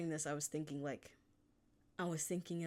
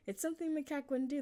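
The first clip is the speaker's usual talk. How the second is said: emphatic restatement; 11 semitones higher, 3 dB louder, faster than usual. Real, not acted.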